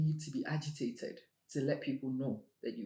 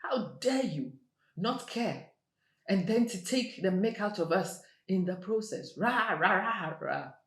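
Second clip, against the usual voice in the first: indignant retort; 6 semitones higher, 4 dB louder than usual. Retold or imitated. Younger self retorting to father.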